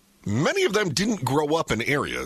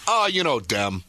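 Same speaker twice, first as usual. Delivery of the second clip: imitating dad. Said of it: "He goes".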